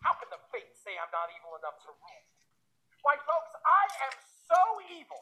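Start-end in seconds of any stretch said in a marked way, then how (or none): 3.0-5.2 comedy setup. Acted. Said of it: "How evil are you?".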